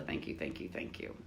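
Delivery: soft whispered thank yous. Real, not acted. Thanking viewers by name in a whisper. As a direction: breathe the thanks out.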